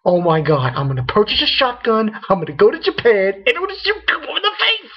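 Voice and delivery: mock rage. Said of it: "I was like".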